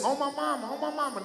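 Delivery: lifted, sing-song oh my mama; his catchphrase. Retold or imitated. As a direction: toss it out high like a catchphrase. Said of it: "y'all heard me say".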